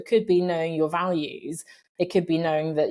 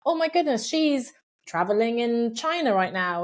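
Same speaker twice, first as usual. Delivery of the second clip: mock envious gasp; 5 semitones higher than usual. Scrolling social media and envying a friend abroad, high mock-surprised gasp. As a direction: play the envious scroller gasping at a friend's trip.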